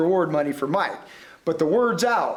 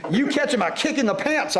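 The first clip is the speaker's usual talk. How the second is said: irritated roar; 6 semitones higher than usual. A narrator's reading. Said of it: "I roared with irritation".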